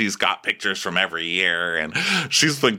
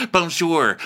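moderately raised put-on "Bonjour"; mock French greeting; 7 semitones higher than usual. Asher greeting the guys, moderately raised mock voice.

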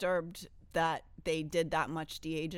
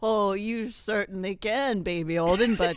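Santa Claus. Acted. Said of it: "will you be Santa Claus".

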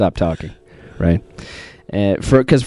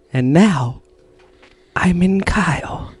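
very slow, hushed villain voice; the Creator, Kalo impression; 3 dB quieter, slower than usual. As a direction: draw each phrase out like a possessed mastermind. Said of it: "with the Kalo impression".

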